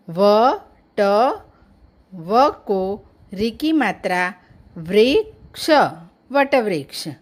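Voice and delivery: teacher sounding out वटवृक्ष letter by letter; spelling out वटवृक्ष. Shown as a demonstration. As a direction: separate व, ट, वृक्ष with clear pauses, then join as वटवृक्ष. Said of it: "वटवृक्ष शब्द लिखा हुआ". (वटवृक्ष को एक-एक अक्षर अलग करके पढ़ना)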